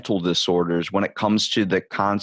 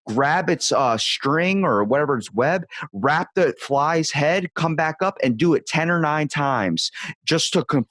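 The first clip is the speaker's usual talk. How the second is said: excited, high and lively; 5 semitones higher than usual. Real, not acted. Thrilled retelling of spider video.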